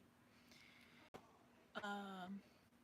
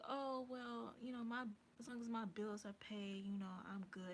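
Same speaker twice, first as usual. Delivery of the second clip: quoted a little higher, showing off; mock peacocking; 3 semitones higher, 3 dB louder than usual. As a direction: mimic her showing she doesn't care. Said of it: "this peacocking".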